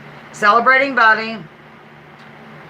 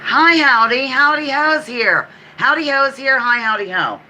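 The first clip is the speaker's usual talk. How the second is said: a lightly voiced goofy greeter, pitched up; silly greeter voice; 6 semitones higher than usual. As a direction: bounce in as a cheery show character. Greets as character Howdy Ho.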